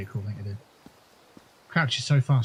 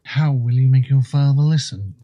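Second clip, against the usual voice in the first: lisp; 5 dB louder than usual. Pretend. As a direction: speak with a slight lisp as an Argonian. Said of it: "I'm putting on a bit of a lisp".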